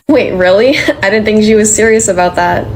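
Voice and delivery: amused disbelief with a laugh; happily taken aback; happy. Acted. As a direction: laugh in pleased surprise. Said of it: "You don't have to sound happy".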